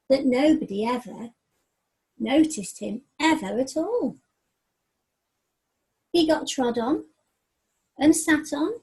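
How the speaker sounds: lively rhyming read-aloud, rising then sinking on the sad ending; story narration. A narrator's reading. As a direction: tell the mouse's woes in a sing-song rhythm.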